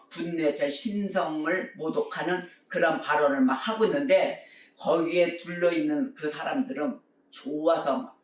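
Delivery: normal talking voice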